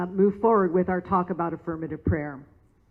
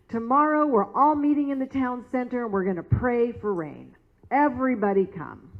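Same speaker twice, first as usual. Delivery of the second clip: raised, higher voice announcing a meeting; pastor calling out; 4 semitones higher, 3 dB louder than usual. Retold or imitated. Pastor announcing a prayer meeting to the farmers, raised and eager. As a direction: call the whole town together, a little louder.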